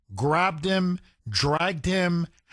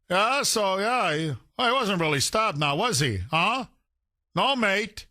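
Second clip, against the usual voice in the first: sarcastic mockery; 3 semitones higher than usual. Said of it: "mocking officers' disbelief".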